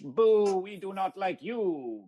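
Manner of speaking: slow, drawn-out heckle; mock crowd jeer; booing jeer. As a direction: boo them, stretching the words out. Jeering at the fence.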